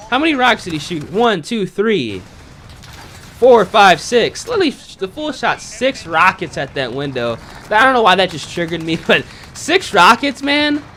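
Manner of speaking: laughing at a clumsy enemy; rising scorn; incredulous counting. Real, not acted. Mocking enemy's wasted rockets.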